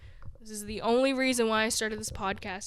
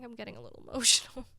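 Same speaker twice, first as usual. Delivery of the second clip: laughing it off; much faster than usual. Real, not acted. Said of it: "before I actually start crying".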